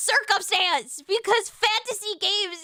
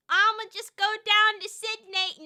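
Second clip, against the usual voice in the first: put-on Australian accent; 3 semitones higher than usual. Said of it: "I'm an Aussie".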